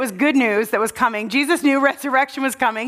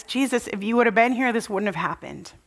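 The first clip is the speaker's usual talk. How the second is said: softer, quick, fading into tears; weeping Mary; 2 semitones lower, 5 dB quieter than usual. Retold or imitated. Mary at Jesus' feet, softly weeping out the words. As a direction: let the words sink away in grief. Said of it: "and she weeps".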